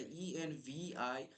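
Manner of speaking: slow letter by letter spelling; spelling out slowly. Shown as a demonstration. Teacher spelling environment slowly for the class. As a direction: read each letter clearly. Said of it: "এন এর উচ্চারণ এখানেও থাকবে".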